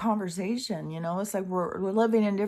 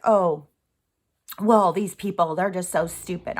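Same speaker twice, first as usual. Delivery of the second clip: mock; 5 dB louder than usual. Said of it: "anybody who thinks, like".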